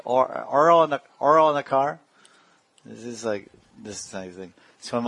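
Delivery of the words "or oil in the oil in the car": light New York twang on "oil", a touch louder; imitating New Yorkers to amuse the class, lightly; mock New York accent. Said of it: "They say".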